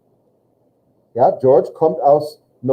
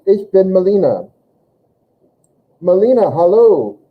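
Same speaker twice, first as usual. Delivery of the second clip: voicing Melina; 6 semitones higher, 4 dB louder than usual. Teacher voicing roommates in dialogue.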